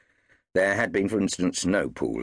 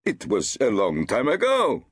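defensive; 10 semitones higher, 4 dB louder than usual. Acted.

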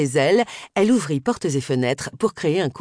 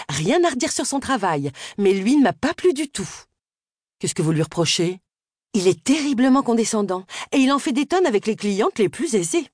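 put-on higher, lively young woman gossiping; chatty Miss Sims; 4 semitones higher than usual. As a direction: chatter away as the village single mum. Narrator voices Miss Sims.

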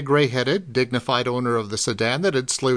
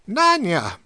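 sharp exclamation; 6 semitones higher than usual. A narrator's reading. Old druggist startled by girl's near death, exclaiming her name. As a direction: call out to stop her, startled. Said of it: "Turner exclaimed".

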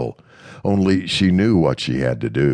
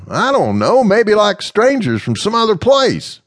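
higher, louder character voice; Mister Smith, gently frank; 5 dB louder than usual. Acted. Mister Smith frankly telling Amanda her fear, higher voice. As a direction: candid and frank, voiced high.

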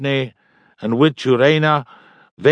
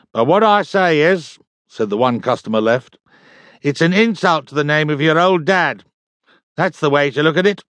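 customer voice; 4 semitones higher than usual. Acted. Customer lectures Hogg.

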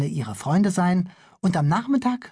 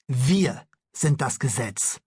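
smug policeman; 3 semitones lower, slower than usual. Acted. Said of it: "sagte der Polizist mit Hängebart".

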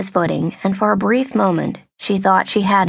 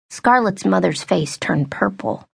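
plain reading voice

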